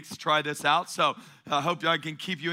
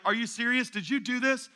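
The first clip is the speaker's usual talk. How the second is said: higher, disbelieving questioning; incredulous king; 3 semitones higher than usual. Retold or imitated. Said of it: "Nebuchadnezzar was taking it personal".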